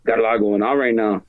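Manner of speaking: low, mildly earnest confession to a buddy; sentimental confiding. Retold or imitated. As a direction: lightly act out confiding in a close friend, low. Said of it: "like, really sentimental".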